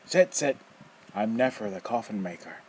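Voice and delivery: loud, rough, mocking old man; teasing old rogue. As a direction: toy with the kid, loud and gleeful. Nefer introduces himself.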